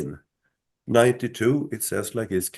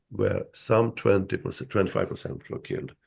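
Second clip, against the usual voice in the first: really running out of voice; losing voice; 2 semitones lower than usual. Real, not acted. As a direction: voice giving out, fading to a rasp of air. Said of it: "You're losing your voice".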